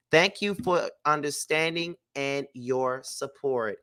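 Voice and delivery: even, measured reading of a prepared statement; statement read-aloud. Acted. Vlogger reads a couple's divorce statement to viewers, measured reading. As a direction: read it out formally, pausing between phrases.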